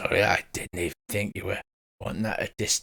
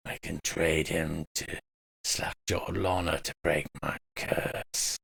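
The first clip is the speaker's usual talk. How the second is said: whispering spider creature; 6 semitones higher, 4 dB louder than usual. Acted. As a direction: hiss the words like a spider.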